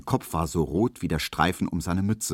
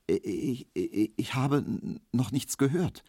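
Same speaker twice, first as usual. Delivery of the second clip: leises, zögerndes Stottern; stotternd; 7 semitones higher, 3 dB quieter than usual. A narrator's reading. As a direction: stammel verschüchtert. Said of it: "stotterte Emil Kubinke". (Kubinke stottert eingeschüchtert vor Markowski)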